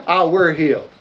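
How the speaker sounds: giggling hillbilly take on "I were healed"; laughing redneck voice. Shown as a demonstration. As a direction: play the hick, cracking up. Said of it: "say it in your redneck voice with me".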